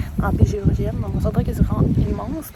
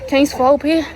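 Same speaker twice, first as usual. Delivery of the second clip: loud and breathless; thrilled, calling out; excited; 4 semitones higher, 7 dB louder than usual. Real, not acted. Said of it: "essoufflée".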